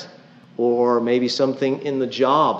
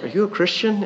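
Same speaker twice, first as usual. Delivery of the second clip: incredulous wife; 8 semitones higher than usual. Retold or imitated. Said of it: "my wife looked at me like".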